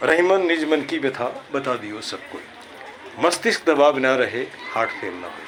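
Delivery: a proud little tagline recital. Shown as a demonstration. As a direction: declaim the couplet to the class. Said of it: "इसको सुनो".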